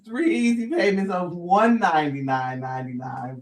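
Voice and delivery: corrected price in low infomercial voice; home shopping host. Pretend. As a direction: announce the better price, salesy. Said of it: "First of all".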